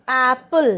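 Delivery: apple with a long open 'ae'; correct pronunciation. Shown as a demonstration. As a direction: model apple clearly, first vowel stretched. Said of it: "हम इसको एप्पल नहीं बोलेंगे". (apple का सही उच्चारण, 'ऐ' खींचकर)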